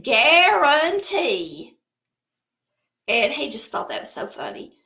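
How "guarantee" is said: "Guarantee" stretched slowly, syllable by syllable; drawn-out word. Retold or imitated. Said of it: "I said".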